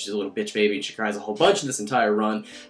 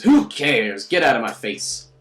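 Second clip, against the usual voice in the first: loud jump on the first words; mock angry dismissal; 2 semitones higher, 6 dB louder, slower than usual. Retelling Rin pushing you away, mock angry. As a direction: act out a curt, irritated brush-off. Rin's angry brush-off, retold.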